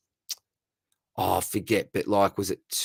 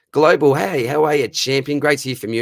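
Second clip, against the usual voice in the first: excited greeting; 6 semitones higher, 7 dB louder than usual. Real, not acted. Hyped greeting of a caller.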